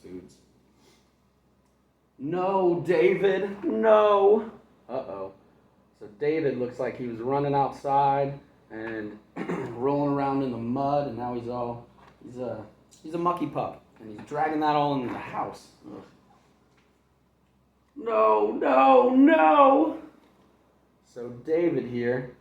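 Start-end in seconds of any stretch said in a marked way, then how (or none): 2.2-4.5 high, loud rising scold; exasperated mother's shout; mom scolding. Acted. 18.0-20.0 high, loud no getting higher; panicked mother's rising shout; mom shouting. Acted. Mom scolding David.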